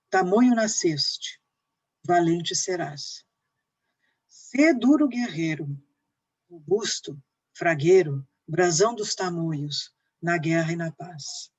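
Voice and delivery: deliberate, stressed five-beat verse; teacher declaiming an epic poem; emphatic poem recitation. Acted. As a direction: declaim each verse with falling ends.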